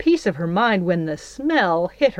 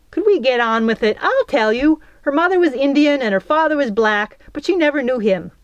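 high, fast, impatient rattle; fed-up, hurried explanation, pitched up; exasperated; 7 semitones higher, 4 dB louder, faster than usual. A narrator's reading. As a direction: take over impatiently and get it done. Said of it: "Midge heaved a sigh".

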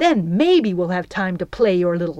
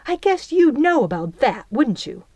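cold; 6 semitones higher, 3 dB louder than usual. A narrator's reading. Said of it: "her voice cold".

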